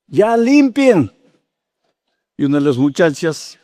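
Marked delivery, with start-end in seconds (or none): 0.1-1.1 high, drawn-out command to clean; firm order. Retold or imitated. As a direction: order them slowly and firmly. Gerente ordena limpiar a las empleadas. (orden firme y alargada)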